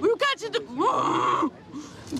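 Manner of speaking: upset yelling, fast then slowing; shouting match. Real, not acted. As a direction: yell back at the officer. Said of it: "Stop yelling at me".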